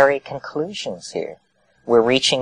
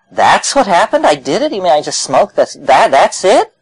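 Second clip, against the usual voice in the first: higher, louder disbelieving questions; can't believe it was that simple; shocked disbelief after the trip; incredulous; 7 semitones higher, 5 dB louder than usual. Retold or imitated.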